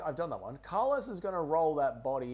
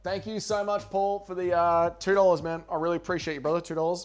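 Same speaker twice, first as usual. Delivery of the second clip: mock grateful; 4 semitones higher, 9 dB louder than usual. Loud thanks for tiny donation.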